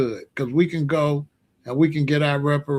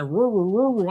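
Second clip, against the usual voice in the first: cartoon dog "Roo, roo, roo, roo" barked in a lightly raised voice; mock Scooby-Doo woof; 2 semitones higher than usual. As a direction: bark like Scooby-Doo, playful. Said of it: "I did the Scooby-Doo".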